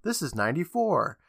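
lightly acted call to gather attention. Eighty-seven introduces the newcomer to the girls, calling out. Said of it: "eighty-seven calls out".

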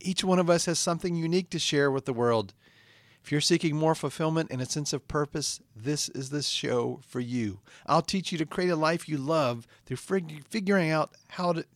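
earnest self-help pitch; self-help podcast intro read; motivational host read. Acted. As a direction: sell the dream to listeners.

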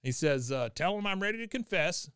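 put-on high-pitched cranky old man; gruff old grandpa voice. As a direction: bark it like an ornery old veteran. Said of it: "he goes".

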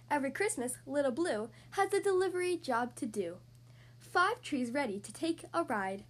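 lively picture-book read-aloud; reading to children. Acted. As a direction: read it like bedtime story time. Reads picture book to kids.

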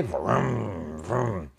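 rolled car vroom; mouth-made engine noise; imitated engine revving. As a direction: rev like a little car.

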